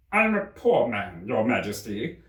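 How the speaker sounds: slow, nervous pleading; a frightened man begging the King; trembling Hatter. Acted. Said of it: "began in a trembling voice".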